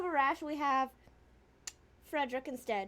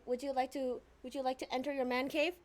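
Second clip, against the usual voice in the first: ordinary talk, nothing marked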